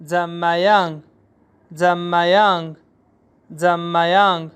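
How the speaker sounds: जम्मायांग with falling end; teacher drilling; Chinese word drill. Shown as a demonstration. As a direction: model जम्मायांग clearly. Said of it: "How about".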